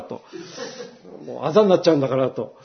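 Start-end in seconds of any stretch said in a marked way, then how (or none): 1.2-2.3 fast, petulant complaint; quick self-pitying grumble; mock whine. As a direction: rattle off a sulky gripe. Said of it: "なんかそう言いたくなっちゃう".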